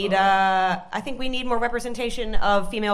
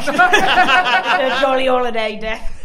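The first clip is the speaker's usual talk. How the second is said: mock Cockney; much slower than usual. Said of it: "like Dick Van Dyke".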